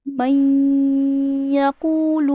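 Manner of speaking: من یقول with the نون blended nasally into یقول; merged reading. Shown as a demonstration. Teacher giving the final model reading. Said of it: "ہم نے من and یقول کو ملایا ہے".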